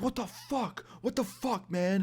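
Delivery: very high, thin mock outrage without volume; confused, angry imitation. Man drenched with water reacts, confused and angry. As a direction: squeal it softly as the startled bro. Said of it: "all confused and angry".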